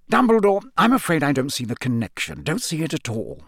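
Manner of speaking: a lightly voiced blustering minister; Fudge, the Minister. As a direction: insist he sees no link. Minister Fudge arguing with Dumbledore.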